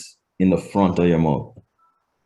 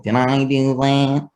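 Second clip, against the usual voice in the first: Steve Urkel; 3 semitones higher than usual. Retold or imitated. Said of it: "if you remember Steve Urkel".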